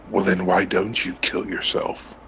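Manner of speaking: lightly voiced low, creepy entity; retold creepy voice, dropped low. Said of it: "very creepy like that".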